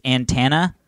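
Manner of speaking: antenna said as "an-TAN-a"; odd pronunciation. Real, not acted. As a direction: flatten the middle of antenna to "tan". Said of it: "It means antenna, folks".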